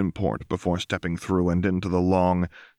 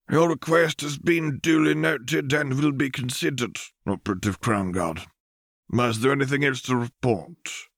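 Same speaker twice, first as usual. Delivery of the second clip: higher, formal voice of a presiding counselor; stern council elder; 6 semitones higher than usual. A narrator's reading. Council addresses operative Lux, formal and cool.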